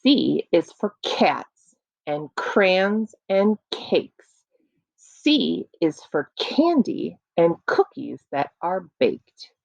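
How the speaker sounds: slow rhythmic poem recitation; sound poetry. Shown as a demonstration. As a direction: recite it slowly for children. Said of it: "this poem, again, is called Letter C".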